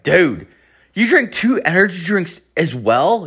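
high-pitched incredulous question; acted disbelief. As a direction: ask it as if appalled by a friend. Shocked at friend's intake.

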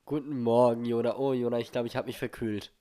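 talking with a stuffed-up nose; blocked nose from a cold, nasal. Real, not acted. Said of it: "meine Nase ist ganz zu".

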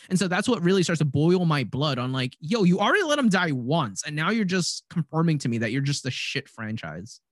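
real rising exasperation; worked-up rant, mildly heated; fired up. Real, not acted. Host scolds the franchise over its quarterback, fired up. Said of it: "I'm getting fired up right now".

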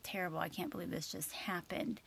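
soft hushed whisper of disbelief; whispering to herself after the disaster; despairing whisper. Retold or imitated. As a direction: breathe it out like you can't believe it. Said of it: "I was like".

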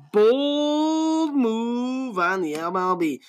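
high, slow drawn-out put-on voice. Podcaster mocking league plan, slow put-on voice. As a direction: stretch it like an announcer. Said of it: "I don't know why I'm talking like that".

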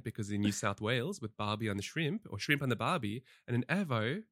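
loosely put-on Australian accent; poor Australian accent. Shown as a demonstration. Co-host jokingly demonstrates an Australian accent, a poor attempt. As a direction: have a rough go at Australian. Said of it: "sorry about my poor Australian accent".

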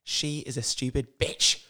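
slow, lightly put-on drifting American accent; melted American accent. Lisa complaining about her mother, melted American accent. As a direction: draw it out in a wobbly amateur American accent. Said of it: "like, melted American".

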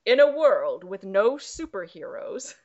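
hint of dramatic trailer-guy voice; movie trailer announcer. Host restarting the log line, lightly voiced trailer announcer. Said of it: "Sorry, I had to do that".

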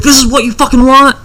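high, loud mock shout; imitating enraged man. Husband pulls gun from closet, imitated frantic shout. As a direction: burst out as the desperate gunman.

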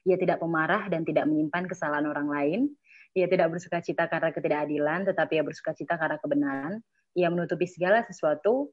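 steady devotional reading voice; scripture reading. Real, not acted. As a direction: read the verses aloud in an even, measured way. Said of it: "Aku bacain ya".

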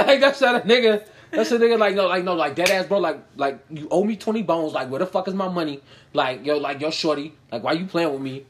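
mock New York guy demanding his money; hammed-up New York guy, laughing through it; New York accent. Guy demanding twenty bones back, mock New York accent. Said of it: "the way them niggas talk".

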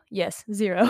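settled, falling answer; confirming. Real, not acted. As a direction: state it firmly after the doubt. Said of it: "I don't know my own name".

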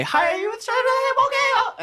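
very high, slow robot greeting. Acted. Robot calling after the halfling, very high and slow. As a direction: chirp after him like an eager robot.

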